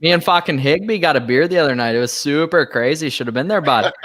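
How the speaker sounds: mock northern Canadian accent, hey bud; lightly put-on Letterkenny twang. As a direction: friend teasing about Higbee in a light Letterkenny accent. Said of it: "you just went total Letterkenny on me".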